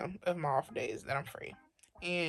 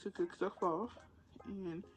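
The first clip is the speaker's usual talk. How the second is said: hushed late-night whisper; library whisper; 3 semitones higher, 14 dB quieter than usual. Real, not acted. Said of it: "I started whispering because people started going to bed".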